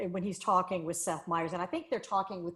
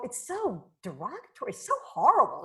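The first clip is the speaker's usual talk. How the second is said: mock horror; 4 semitones higher than usual. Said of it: "you go".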